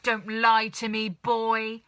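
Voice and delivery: put-on loud scolding old hag; shouted. Grandma accusing George of lying, shouting. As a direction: shout him down. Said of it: "the enormous old hag shouted".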